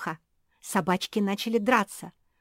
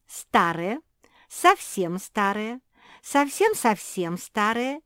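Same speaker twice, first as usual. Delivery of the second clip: each старые slower and higher, rising at the end; savouring the escalation; building emphasis; 3 semitones higher, 6 dB louder, slower than usual. Acted. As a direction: stretch out совсем-совсем старые more each time. Escalating list, slowing.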